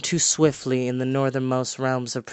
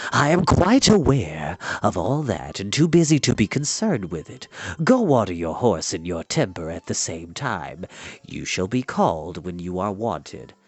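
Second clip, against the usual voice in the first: put-on unperturbed old enchanter; 6 semitones lower than usual. Old enchanter rebuking the prince, low and calm. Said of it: "Dallben interrupted".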